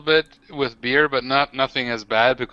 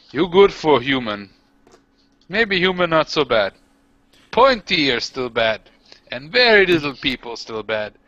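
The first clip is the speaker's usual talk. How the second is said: orc voice; 3 semitones higher than usual. Acted. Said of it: "I'm saying".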